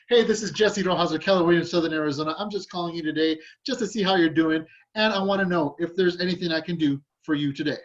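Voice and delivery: bright, lively pitch with a lift in the voice; energetic caller. Shown as a demonstration. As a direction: call like you're glad they picked up. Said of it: "that has a completely different energy".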